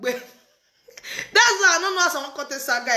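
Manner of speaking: talking through real laughter; amused, laugh spilling into the words. Real, not acted. Reacting to the video she watched, laughing. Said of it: "I want die for laugh".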